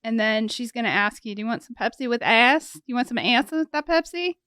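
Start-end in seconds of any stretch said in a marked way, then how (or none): 1.3-4.4 grandma's Kentucky ice that sounds like ass; imitating grandma's Kentucky accent. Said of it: "it came out sounding like".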